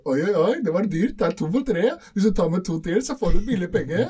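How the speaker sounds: chirpy shop cashier with a mock Asian accent. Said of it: "asiater som jobber".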